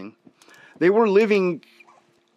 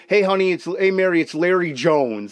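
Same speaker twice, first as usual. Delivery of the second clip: stiff mock phone call. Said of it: "Like, you wouldn't say that".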